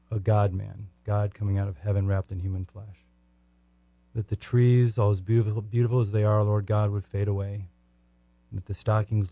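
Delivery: fervent spoken prayer addressing the Lord; heartfelt closing prayer, steady and sincere; earnest prayer. Acted. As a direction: pray aloud to God with devotion, for the listeners.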